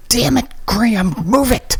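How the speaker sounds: high, sharp angry order; furious yell. Acted. Christy yelling at injured Graham to hurry, furious. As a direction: snap at him to move now.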